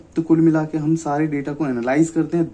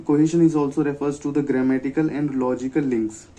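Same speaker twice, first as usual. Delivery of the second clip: slow dictation; much slower than usual. Shown as a demonstration. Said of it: "definition read slowly".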